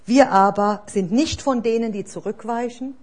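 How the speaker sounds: loud, declared proclamation over the church; spoken proclamation. Real, not acted. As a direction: proclaim it boldly over everyone. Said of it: "das spreche ich jetzt über uns aus". (kraftvolle Proklamation über die Gemeinde)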